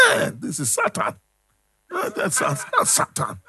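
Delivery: high, laughing mock cry of "Hey"; lightly hammed-up gleeful shout; mocking exclamation. Preacher mocks Satan's pull to the congregation, laughing.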